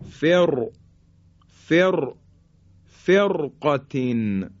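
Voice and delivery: "فرقتین" built up from a thick "فر"; heavy R. Shown as a demonstration. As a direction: hold the heavy ر in "فر", then finish "فرقتین". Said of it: "به این شکل حرف را". («فرقتین» با رای ساکن درشت)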